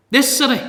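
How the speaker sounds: "This" punched, short falling "city"; strong stress on "This", quick fall. Shown as a demonstration. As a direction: hit "This" like a finger jab. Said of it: "the Greek it's a little bit more emphatic".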